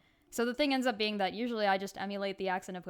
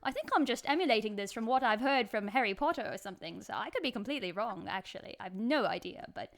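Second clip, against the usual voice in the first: put-on amateur British accent in casual chat. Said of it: "continue speaking in this accent".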